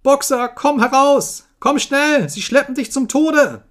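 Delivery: high, loud, desperate pleading; terrible scream. A narrator's reading. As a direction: scream a life-or-death warning. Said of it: "schrie Clover mit schrecklicher Stimme".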